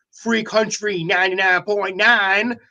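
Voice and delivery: lightly voiced, slowed country radio announcer accent; a hint of a country DJ accent as Andy Webb would say the station name. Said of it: "That was my, my country, uh, station accent there".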